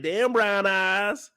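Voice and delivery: stretched-out mock flirting; slow flirty drawl. Woman flirting with Big T, slow mock-sultry. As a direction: coo it slowly like a flirt. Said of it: "She over here flirting like".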